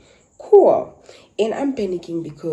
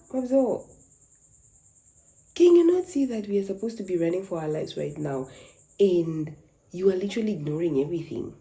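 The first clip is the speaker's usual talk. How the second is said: panicked plea; 3 semitones higher, 3 dB louder than usual. Retold or imitated. Panicked plea to her boyfriend.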